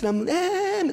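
very high, loud scream; pained scream. Retold or imitated. Boy still screams in the pool, very high and loud. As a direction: keep screaming in pain.

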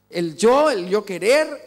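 loud, mocking "yo" as if self-important; mocking ego voice. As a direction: puff up the ego, mock it.

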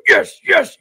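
very high, far dub voice saying Yes, yes; mock Piccolo yes. Streamer imitating Piccolo's dub line, high mock voice. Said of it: "he was like".

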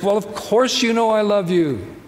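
high, exasperated protest; exasperated Peter. Retold or imitated. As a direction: push back, fed up and a bit heated. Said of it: "a little hot under the collar".

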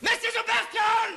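shout. Acted. Captain bellows at his first mate. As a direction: bellow it at him. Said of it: "Oh, you're shouting again".

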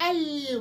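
"ال" with a firm, held ل; strong "ال". Shown as a demonstration. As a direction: press hard on the ل of "ال". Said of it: "وصوتها قوي جدًا".

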